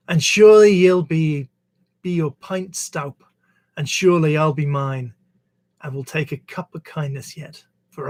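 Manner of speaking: slow recital, long-held refrain endings; poem recitation. Shown as a demonstration. Reader closing a poetry reading with Auld Lang Syne, slow spoken recitation. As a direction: recite it as verse, strong openings falling away. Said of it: "I'm reading it as a, as a poem, not singing it".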